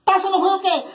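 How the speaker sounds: high, challenging mother; sharp mother. Retold or imitated. Mother challenging her sulking child, high and sharp. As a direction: snap back at the sulking kid, lightly. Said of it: "ela disse".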